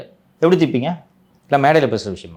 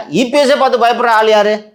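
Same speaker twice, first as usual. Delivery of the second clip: teasing; 10 semitones higher, 4 dB louder than usual. Real, not acted. Teasing question, high pitch.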